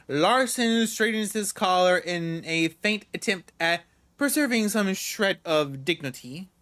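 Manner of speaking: usual speaking voice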